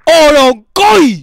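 slow, loud, savoured surname; drawn-out surname. Pretend. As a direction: stretch out the surname with relish. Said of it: "ese apellido me encanta".

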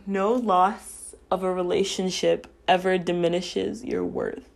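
holding back tears on the last words; real emotion choking off the end; getting emotional. Real, not acted. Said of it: "I'm getting a bit emotional".

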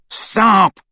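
high, loud command; shout. A narrator's reading. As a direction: shout to halt someone. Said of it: "Malfoy shouted at Crabbe".

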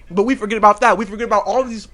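talking while chewing gum; words around a piece of gum. Real, not acted. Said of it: "I'm chewing gum and it's almost fall".

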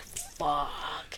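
very soft, slow, drawn-out swear; retold deflated curse. Host voices Ashley finding the gun not loaded, quietly deflated. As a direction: let it sink out low in mock dismay. Acted dismay at unloaded gun.

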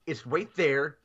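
mock-polite squeaky insistence; insistent repeat. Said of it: "I'm like".

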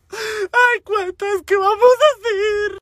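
lamento agudísimo y alargado; llanto actuado. Retold or imitated. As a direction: llora exagerando en plena calle. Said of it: "Empecé a llorar, pinche media calle". (lloriqueo agudo y dramático)

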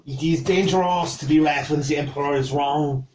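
put-on measured French accent, lifting on the final question. Cook explains the Empire's one rule, French accent. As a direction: instruct him in a French accent. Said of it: "annoyed that you can do that".

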